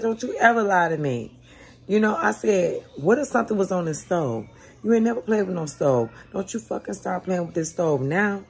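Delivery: loud, high yelling scold; mother yelling at the child over the stove; angry scolding. Retold or imitated. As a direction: tear into her for lying. Mother scolding daughter for lying.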